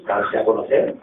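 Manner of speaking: drawn-out, low, stalling reply; unsure pupil dragging out the answer; hesitant answer. Acted. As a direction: stall on the first word, then answer low.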